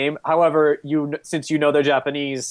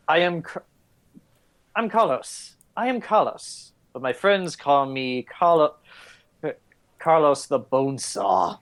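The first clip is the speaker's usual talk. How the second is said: slow low villain voice; 3 semitones lower, slower than usual. Acted. GM voices Carlos introducing himself.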